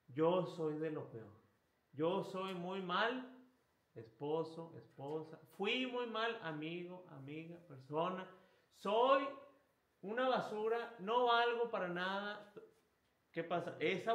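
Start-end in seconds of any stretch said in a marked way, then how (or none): 0.1-8.3 self-loathing lament. Retold or imitated. 8.7-12.5 loud, higher anguished self-condemnation; self-loathing cry. Retold or imitated. The sinner calling himself trash, louder and higher in despair.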